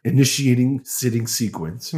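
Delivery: flat robotic soldier voice. Acted. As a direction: announce it like a machine.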